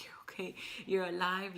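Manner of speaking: whispered reassurance to a newborn; mother whispering to her baby, relieved. Retold or imitated.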